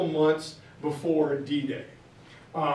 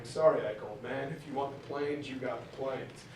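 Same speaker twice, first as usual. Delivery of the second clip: humbled Churchill; 6 semitones lower, 10 dB quieter than usual. Retold or imitated. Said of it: "Churchill going".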